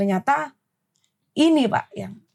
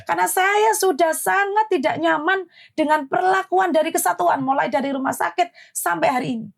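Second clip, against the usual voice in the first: higher, rushed, still heated; retold heated apology; 5 semitones higher than usual. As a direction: apologise without backing down. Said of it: "kalau mulut saya seperti ini". (minta maaf tapi masih emosi, nada tinggi)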